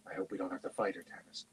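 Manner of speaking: hushed, low-volume aside; whispered. A narrator's reading. Sturm whispers to Tanis near the dragon, hushed. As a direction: keep it well under, softly. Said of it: "Sturm whispered".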